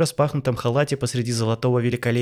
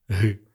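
smirking grunt; 3 semitones lower than usual. Acted. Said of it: "хмыкнул Тарас".

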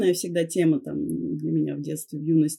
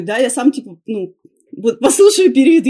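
put-on boyfriend voice; 4 semitones higher, 12 dB louder than usual. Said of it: "Он такой".

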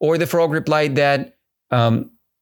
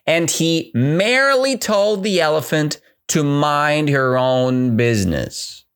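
ordinary talk

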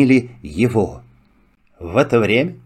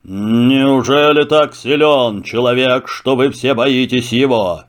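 lion voice. Acted. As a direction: speak as a calm king of beasts. Lion speaks. (голос льва)

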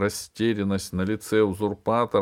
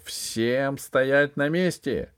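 slow, loud booming order; thundering command; 5 semitones higher, 4 dB louder, much slower than usual. A narrator's reading. Armored figure ordering the hall, booming. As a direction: thunder it at everyone. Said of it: "прогремел дикий голос".

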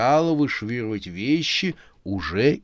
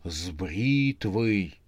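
gasping shock; much slower than usual. Acted. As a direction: gasp and reveal it slowly. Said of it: "ахнула".

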